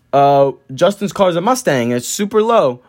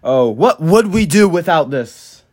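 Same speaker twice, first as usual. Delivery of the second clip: mock-amazed, slow and deliberate; corny dad joke; 3 dB louder, slower than usual. Imitating friend's dad making jokes about the jack, corny. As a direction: deliver a groaner with hammed-up wonder. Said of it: "starts making, like, uh, jokes".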